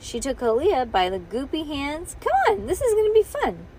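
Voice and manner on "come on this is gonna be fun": high-pitched, excited coaxing; eager coaxing. A narrator's reading. Bean coaxing toddler along by the hands, excited and high. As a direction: sell the fun to a little one.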